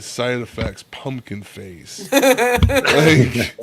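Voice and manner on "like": high burst of laughter; laughing. Real, not acted. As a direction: crack up mid-word. Laughing at pumpkin face.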